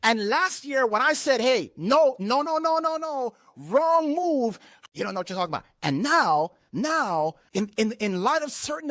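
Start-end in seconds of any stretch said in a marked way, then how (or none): 1.4-4.6 emphatic warning. Retold or imitated. Preacher quoting his own warning.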